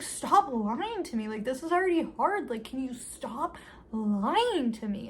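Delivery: dramatized exasperation; exasperated plea. Retold or imitated. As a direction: imitate a desperate demand for honesty, stretching words. Acted plea in a quarrel.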